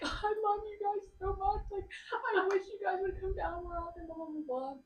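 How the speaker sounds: high, tearful voice, reliving the sob; retold bawling. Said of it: "I was bawling probably".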